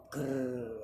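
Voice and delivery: short rolled grrr growl; lion growl. Shown as a demonstration. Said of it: "lion sound is".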